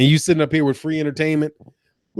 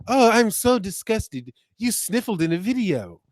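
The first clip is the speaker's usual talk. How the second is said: mock disgust; 3 semitones higher, 4 dB quieter than usual. Streamer mimicking a viewer's complaint about sniffling, in mock disgust. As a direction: imitate an appalled complainer, dragging the words.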